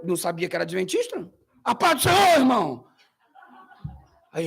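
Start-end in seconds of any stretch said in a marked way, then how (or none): 1.6-2.9 eager pentecostal greeting. Retold or imitated. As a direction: greet the host pastor warmly. Greeting imitated.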